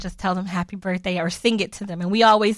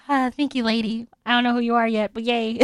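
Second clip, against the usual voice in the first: voicing a baby. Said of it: "just like".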